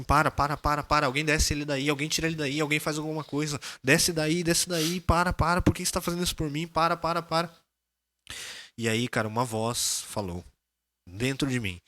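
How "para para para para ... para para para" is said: mild retold desperate plea; rapid repeated begging, pitch creeping higher; pleading. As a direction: beg for it to stop, only lightly acted. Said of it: "comecei a chorar, chorar".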